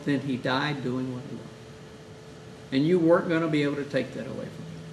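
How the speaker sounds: soft, low and kind; gentle consolation. Shown as a demonstration. Chaplain consoling the widow after the accident, tender. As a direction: settle her grief gently.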